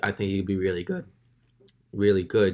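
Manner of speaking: voice cracking and breaking. Speaker praising the Wizards' pick of Denny, voice cracking. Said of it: "that was a bad voice crack".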